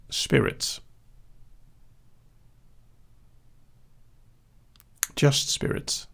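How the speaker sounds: mysterious soft whisper. Pretend. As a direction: breathe the name like a secret. Whispers old pseudonym mysteriously.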